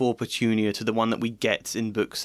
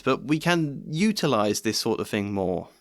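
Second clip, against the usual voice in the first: normal talking voice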